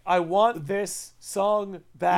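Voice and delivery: slow, drawn-out plea through a laugh. Real, not acted. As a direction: whine it back half laughing. Repeats slowly, laughing.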